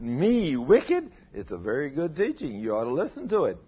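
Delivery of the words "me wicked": louder, higher incredulous question; incredulous title. Retold or imitated. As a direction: read the title as a shocked question. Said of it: "That's what he titled it".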